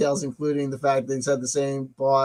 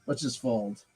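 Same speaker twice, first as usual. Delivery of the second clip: whispered; 6 semitones lower, 10 dB quieter than usual. Shown as a demonstration. Streamer giving up on the stream, whispering to chat. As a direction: whisper "Let's just fold." much softer, breathy resignation. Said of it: "repeated softer".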